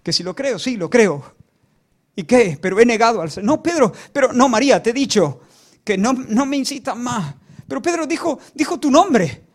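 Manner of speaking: insistent back-and-forth, pitch rising; acted heated argument. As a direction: argue it out, exasperated and insistent. Acted argument between Pedro and María.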